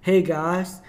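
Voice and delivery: light imitation of an Aussie accent; slow Aussie accent, hamming it up; Tim Star Aussie accent. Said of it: "he says in his Au-, Aussie accent".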